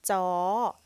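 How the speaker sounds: "Jaw" loud on a high tone that rises at the end; Thai high tone. Shown as a demonstration. Teacher modelling the third tone mark on "Jaw", loud high tone. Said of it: "the third tone mark making a high tone".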